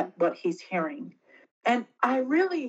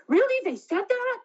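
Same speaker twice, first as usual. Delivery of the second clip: shocked disbelief; 14 semitones higher, 3 dB louder than usual. Retold or imitated. Disbelieving reaction retold to husband.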